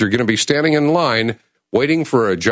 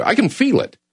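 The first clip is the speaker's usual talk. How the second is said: higher, pushing with raw feeling; raw emotion; 9 semitones higher than usual. Real, not acted. Host telling listeners he feels it, raw and emotional. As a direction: let the emotion spill over. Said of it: "raw emotion".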